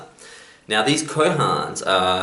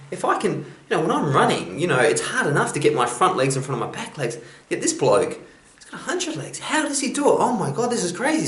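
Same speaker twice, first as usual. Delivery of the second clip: high, squeaky frog voice, much higher, full of wonder; a small frog gasping at all those legs; amazed frog; 9 semitones higher than usual. Acted. Frog marvelling at the caterpillar's hundred legs, very high and amazed.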